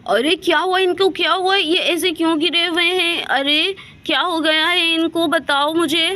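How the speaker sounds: high, loud, urgent questions; alarmed. Acted. Aunt alarmed at children lying on floor, high and loud. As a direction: demand answers in a fright.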